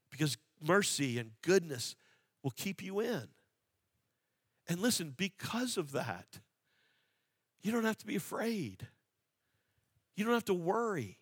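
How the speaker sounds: hushed, tender pastoral comfort; gentle reassurance. Acted. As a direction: ease them out of their fear.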